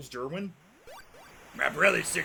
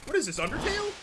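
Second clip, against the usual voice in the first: indignant; 10 semitones higher than usual. Real, not acted. Indignant after the flower attack.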